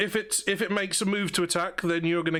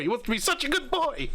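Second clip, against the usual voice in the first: cooing puppy talk; 9 semitones higher than usual. Acted. GM cooing about the wolf.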